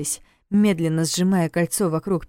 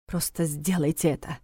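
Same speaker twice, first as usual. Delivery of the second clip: curt annoyed order; a touch of irritation, quietly; irritated command; 5 dB quieter than usual. A narrator's reading. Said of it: "раздражённо велел Войтах".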